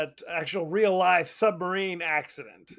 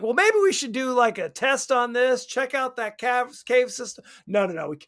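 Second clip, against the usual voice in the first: put-on South African accent; 3 semitones higher than usual. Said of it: "I'm trying to do a South African accent".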